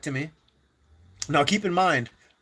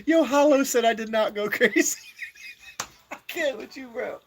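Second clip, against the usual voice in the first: amused disbelief; 9 semitones higher than usual. Real, not acted. To Hollow on stream, amused, raised-pitch protest. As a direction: call out the friend with a grin in the voice.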